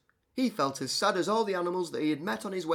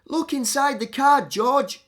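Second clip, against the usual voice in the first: eager animals; 12 semitones higher, 10 dB louder than usual. Acted.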